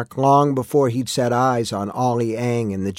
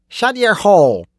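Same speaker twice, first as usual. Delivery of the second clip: high, loud angry command; sharp order; 8 semitones higher, 4 dB louder than usual. A narrator's reading. Constable silencing a protesting miner, sharp order. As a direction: shut him up with a raised voice.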